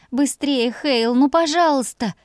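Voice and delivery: high, urgent plea; pleading. A narrator's reading. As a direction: beg him desperately. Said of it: "взмолилась я".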